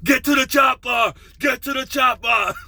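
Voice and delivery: high, loud mock battle yell; yelled combat order. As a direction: bellow a hammed-up command over gunfire. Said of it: "you gotta yell instructions".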